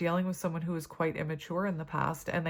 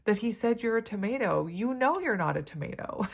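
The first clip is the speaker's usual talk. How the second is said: amused mom reasoning; 5 semitones higher than usual. Retold or imitated. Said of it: "And I'm like".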